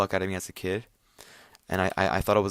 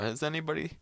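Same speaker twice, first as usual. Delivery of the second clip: high, small tentative call; mock-nervous little question; timid searching; 8 semitones higher, 4 dB quieter, much faster than usual. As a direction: softly check if someone is hiding. Acts checking pockets for a person.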